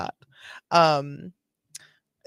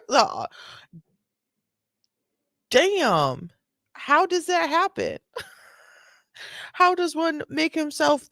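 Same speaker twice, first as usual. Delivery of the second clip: higher, giggling amazement; laughing disbelief; 6 semitones higher than usual. Real, not acted. Streamer laughing at the cop's muscles, higher giggling disbelief. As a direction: laugh while asking how he got so big.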